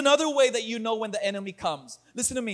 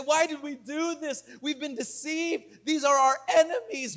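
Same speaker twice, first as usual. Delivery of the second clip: mock complaining, pitched up; grumbling complaint; 3 semitones higher than usual. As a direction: complain like the aggrieved crowd. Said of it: "started to grumble and complain".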